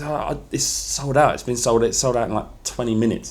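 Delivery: put-on understated Spanish accent, reluctant to do it; light Spanish accent. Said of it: "Do the accent".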